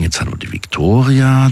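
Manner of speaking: ordinary talk, nothing marked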